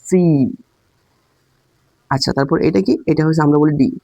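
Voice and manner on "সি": সি hit with extra force; the letter C said with English emphasis; stressed native C. Shown as a demonstration. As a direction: punch সি harder, English style. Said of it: "জোর দিয়ে বলে আর কি".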